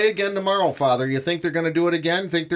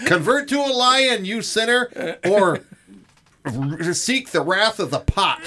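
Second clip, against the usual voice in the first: mock fire-and-brimstone preacher; 3 semitones higher than usual. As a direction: play a preacher damning sinners, grinning through it. Mock preacher scolding fans.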